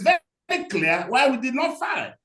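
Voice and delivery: defiant shout at the court. Real, not acted. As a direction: push back hard on the judge. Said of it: "You have talked to the court very rudely".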